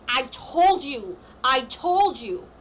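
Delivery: slow, loud, gloating I told you. Pretend. Client imagined telling the court I told you, slow and loud. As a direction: lean into the vindication, drawn out.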